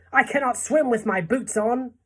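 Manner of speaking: high-pitched panicked protest; shout. A narrator's reading. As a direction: cry out in urgent alarm. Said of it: "shouted the centipede".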